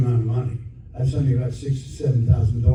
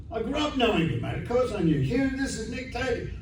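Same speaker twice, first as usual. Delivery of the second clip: eager admirer; 10 semitones higher, 10 dB quieter than usual. Retold or imitated. Retelling young star's eager greeting.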